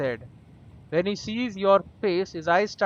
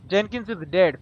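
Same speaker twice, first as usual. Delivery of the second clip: blunt, loud announcement of death; 5 dB louder than usual. Shown as a demonstration. Telling the stranger bluntly his friend is dead, loud. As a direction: state it hard and flat out. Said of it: "Be gentle".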